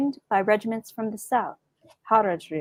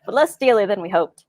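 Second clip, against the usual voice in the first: 1940s radio announcer; 3 dB louder than usual. Acted. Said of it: "I had a good nineteen forties radio announcer voice".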